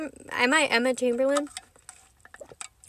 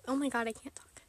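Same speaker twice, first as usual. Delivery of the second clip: a breathless whisper after laughing; whispered through laughter; 9 dB quieter than usual. Real, not acted. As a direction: whisper it, too giggly to speak. Laughing fit, breaks into whisper.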